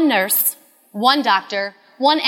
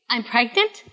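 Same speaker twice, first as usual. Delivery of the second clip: stunned disbelief; 4 dB quieter than usual. Retold or imitated. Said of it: "Wait, I am? Wait".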